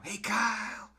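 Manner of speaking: high, loud call across a parking lot; imitating a friend's shout. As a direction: shout his name like a bubbly friend spotting him. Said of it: "all I heard was".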